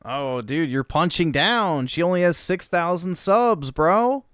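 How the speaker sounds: loud, high mock scolding. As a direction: scold him in a hammed-up tone.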